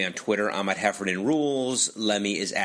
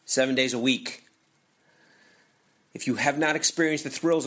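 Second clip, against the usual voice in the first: upbeat sponsor read, a bit higher and brisk; 3 semitones higher than usual. Acted. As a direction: sell the go-kart place like a radio spot. Reads the sponsor ad.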